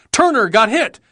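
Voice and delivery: high, urgent battlefield yell. A narrator's reading. Marine alerting his buddies under fire, yelling. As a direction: call out the news over gunfire. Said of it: "when someone yelled".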